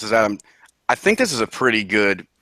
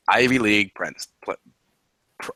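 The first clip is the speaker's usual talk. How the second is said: tongue-tied from laughing. Real, not acted. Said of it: "I can't even say".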